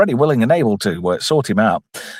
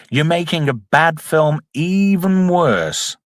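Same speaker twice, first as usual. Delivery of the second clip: high-pitched outburst of despair, easing slightly; exasperated; 4 semitones higher than usual. Real, not acted. Reviewer railing at whoever upscaled the film, exasperated. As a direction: wail in protest, stretching the final blow. Exasperated by poor picture quality.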